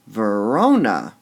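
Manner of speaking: Verona drawn out slowly; another stress try on Verona. Shown as a demonstration. Teacher tests Verona again for the class. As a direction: stretch Verona and weigh the syllables. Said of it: "Would we say".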